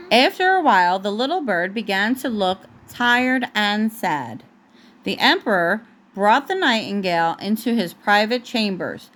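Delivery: gentle storybook read-aloud; picture-book narration for a toddler; reading to a child. Acted.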